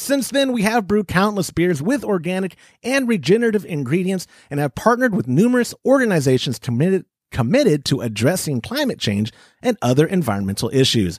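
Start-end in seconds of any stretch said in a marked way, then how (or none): none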